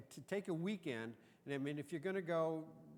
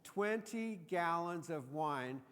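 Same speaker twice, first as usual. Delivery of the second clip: slow, higher, marvelling at "Twenty gallons"; awed emphasis; 4 semitones higher, 4 dB louder, much slower than usual. Acted. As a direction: stretch out "Twenty" in amazement. Marvelling at the quantity.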